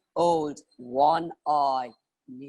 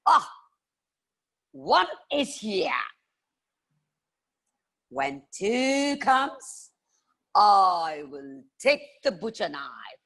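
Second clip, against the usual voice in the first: slow, higher, menacing count; old witch voice; 3 semitones higher than usual. Acted. Lightly voiced old lady counting robbers. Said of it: "she said".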